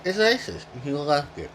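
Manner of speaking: talking while chewing food. Real, not acted. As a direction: speak through a mouthful. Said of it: "I'm sorry I'm chewing".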